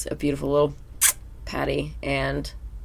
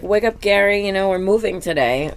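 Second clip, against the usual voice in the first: SpongeBob voice; 5 semitones higher, 5 dB louder than usual. Retold or imitated. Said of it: "He's like".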